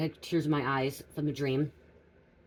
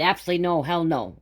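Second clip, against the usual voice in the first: louder, emphatic retold refusal; firm refusal; 2 semitones higher, 6 dB louder than usual. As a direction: firmly put your foot down, retelling it. Retells refusing husband's second marriage.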